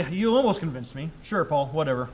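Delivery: lightly sarcastic, dismissive reading. Shown as a demonstration. Agrippa answering Paul's appeal to believe, mildly sarcastic. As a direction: brush it off with mild sarcasm. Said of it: "is he saying sarcastically".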